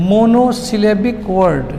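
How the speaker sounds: "Monosyllabic word" very slowly, piece by piece; slow dictation. Shown as a demonstration. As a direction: spell out the sounds of "Monosyllabic word" in stretched chunks. Teacher repeats new term slowly.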